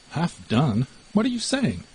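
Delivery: sharp rise of disbelief on what are you saying; the mouse can't believe the name, pitch jumping up; astonished. Acted. The mouse hears the cat's odd name, astonished.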